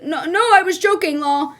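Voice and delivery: high, quick mock backpedal; backpedalling. Guy trying to save it with the girl, backpedalling. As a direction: scramble to take it back. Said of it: "he tries to save it".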